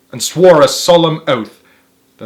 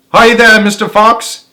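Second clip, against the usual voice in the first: higher, louder mocking hail; taunting yell; 9 semitones higher, 8 dB louder than usual. A narrator's reading. Bunce yells at Mister Fox from his tractor, higher and louder. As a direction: jeer down the hole. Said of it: "yelled Bunce".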